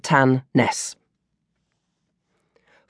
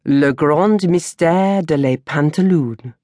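mock French teacher; slower than usual. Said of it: "Gorgie Henri, our French student teacher, would say".

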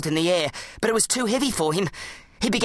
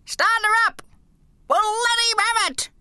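put-on high, excited old army man; old soldier voice. A narrator's reading. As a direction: bark orders like a war veteran. Old soldier calling from bin.

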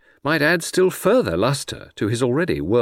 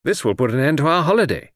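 mildly indignant, raised pitch; indignant cry; 6 semitones higher, 3 dB louder, faster than usual. A narrator's reading. Friend fears the holiday is over, protesting. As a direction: complain with some urgency. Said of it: "I cried".

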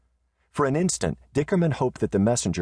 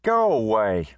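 high, lightly weary brush-off; tired of the fuss; a touch of weariness from Riata; wearily; 6 semitones higher than usual. Acted. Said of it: "said Riata wearily".

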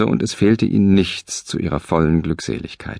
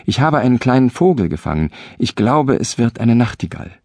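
higher, fast and eager; excited call; 5 semitones higher than usual. Acted. Husband proudly calls to his wife, eager and higher. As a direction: blurt out the news of the bird. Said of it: "rief er ihr zu".

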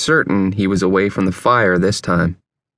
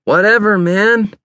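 loud, high, irritated retort; angry brush-off; angry reply; 10 semitones higher, 4 dB louder than usual. A narrator's reading. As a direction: snap back angrily, pitched up. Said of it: "came the angry reply".

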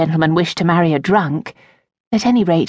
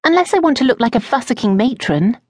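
with some asperity; 7 semitones higher than usual. Acted. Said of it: "with some asperity".

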